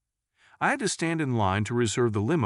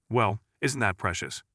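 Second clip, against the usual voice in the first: sweet Southern lady. Acted. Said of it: "the lady from the South commented".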